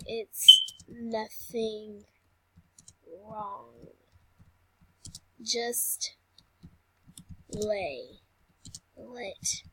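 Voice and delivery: calm the patient, slowly; drawn-out soothing; slow reassuring. Acted. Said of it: "we're gonna be like".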